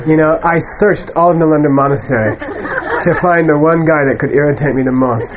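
light laughter running through the words; chuckling through it. Acted. Atisha tells his students why he brought the irritating student, chuckling. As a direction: let a chuckle break the lines.

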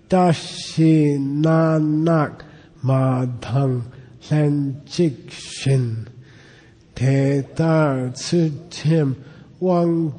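slow, measured chanting of the Tibetan verse; slow recitation. Shown as a demonstration. Teacher leading students through the verse, slow recitation. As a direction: intone each syllable slowly like a class reading.

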